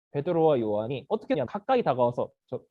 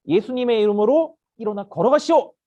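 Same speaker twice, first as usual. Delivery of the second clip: firm, raised proclamation; calling out; 3 semitones higher, 5 dB louder than usual. Acted. Peter and John commanding the lame beggar, calling out. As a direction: declare it as a command. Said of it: "라고 그렇게 외쳤어요".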